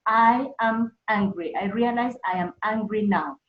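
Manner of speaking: loud, slow, deliberate self-talk; firm acknowledgement of the feeling; naming the anger out loud. Shown as a demonstration. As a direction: declare it to yourself, word by word. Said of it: "call it by its name".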